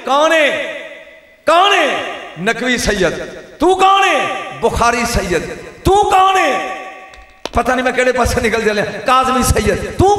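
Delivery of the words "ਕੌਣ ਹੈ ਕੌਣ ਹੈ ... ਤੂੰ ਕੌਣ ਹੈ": high shouted question; calling out. Real, not acted. Preacher demanding each lineage answer, high shout.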